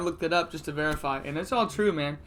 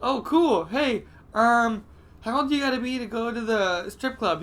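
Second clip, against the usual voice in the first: excited; 4 semitones higher than usual. Retold or imitated. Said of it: "I'm just like".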